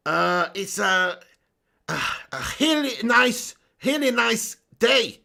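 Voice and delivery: put-on halting, drawn-out foreign-accented English; Cleberson accent. Streamer guessing at a footballer's accent for viewers, halting foreign accent. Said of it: "do the Cleberson accent".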